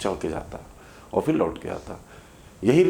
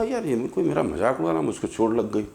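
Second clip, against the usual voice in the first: put-on angry child; 3 semitones higher than usual. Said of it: "बच्चा बड़ा गुस्से में आ गया".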